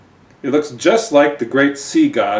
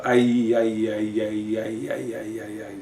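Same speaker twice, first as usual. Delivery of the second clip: fishy dolphin orgasm sound; 3 dB quieter than usual. Acted. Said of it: "sort of sound".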